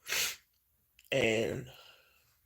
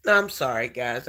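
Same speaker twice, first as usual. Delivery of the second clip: apologizing while crying; sorry through real tears; tearful apology; 4 dB louder than usual. Real, not acted. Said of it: "I did not mean to cry on here".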